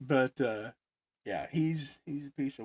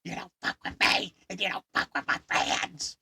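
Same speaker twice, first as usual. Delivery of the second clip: high, loud furious tirade; furious rant; 10 semitones higher, 9 dB louder than usual. Retold or imitated. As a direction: tear into her in the store. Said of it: "He goes".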